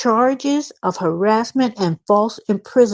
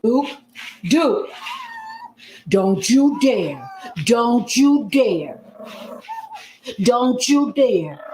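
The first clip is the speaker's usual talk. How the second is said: stern warning; 4 semitones higher, slower than usual. Real, not acted. Owner scolding dog Duke.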